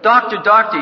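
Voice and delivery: mock alarm at the deathbed; mock panicked call. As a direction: call out like a frightened patient. Mock panicked patient calling out.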